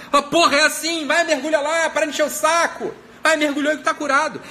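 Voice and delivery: hammed-up impatient command; mock impatient prophet. Profeta impaciente manda mergulhar. (profeta impaciente mandando mergulhar, em tom exasperado)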